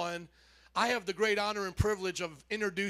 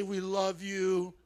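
slow, tender we love you; gentle, reassuring to a neighbor; tender encouragement; 3 semitones lower, slower than usual. Shown as a demonstration. Pastor modeling a tender word for the neighbor. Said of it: "Look at your neighbor, say".

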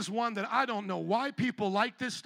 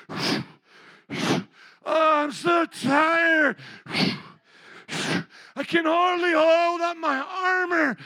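mock whining Christian; 3 semitones higher, slower than usual. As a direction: overplay a tired, self-pitying sigh. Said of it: "heard Christians talk like that".

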